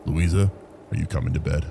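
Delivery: calling loudly across the house; loud yell. Acted. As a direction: yell it out to another room. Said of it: "Dad yelled loudly".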